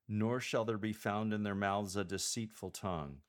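"Nor shall there be found" through "deceitful tongue" in one run; no break anywhere up to "deceitful tongue"; straight through, unbroken. Shown as a demonstration. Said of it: "straight through without any pauses".

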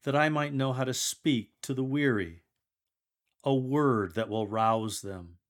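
measured, obedient proclamation; scripture reading. Acted. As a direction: read it as a humble servant, unhurried.

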